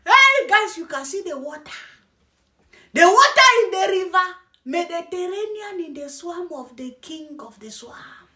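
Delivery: each phrase launched high, then fading away; lightly imitated robotic reporter; mocking newscaster imitation. Mocking a man showing viewers the water, mock newscaster. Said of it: "the way the guy is talking in".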